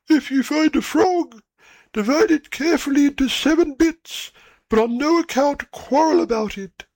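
put-on high, odd old stork voice; stork parent voice. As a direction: pitch up as a fussy old stork.

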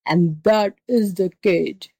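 slow, emphatic angry beast; enraged tiger. Acted. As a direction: spell it out as an exasperated tiger. Tiger figure explains angrily.

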